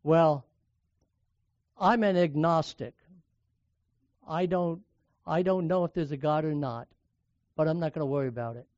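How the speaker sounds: a hint of a smug professor, shrugging it off; mildly smug dismissal. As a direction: brush the question aside lightly smug. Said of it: "in a very smug way".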